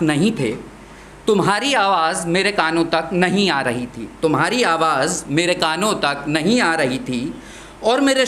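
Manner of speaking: measured verse with deliberate pauses; poem recitation. Acted. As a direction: recite each line, letting the phrases breathe.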